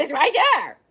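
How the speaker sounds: mock sassy doctor, a touch put-on; imagined sassy doctor. Retelling her surgeon's answer, a light mock sassy voice. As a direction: play the doctor as she pictures him, lightly. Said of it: "He ain't say it like that, but in my mind".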